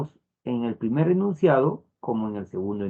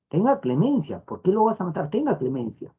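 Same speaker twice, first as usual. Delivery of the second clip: pleading for mercy; 5 semitones higher than usual. Shown as a demonstration. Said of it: "puede condenar o salvar".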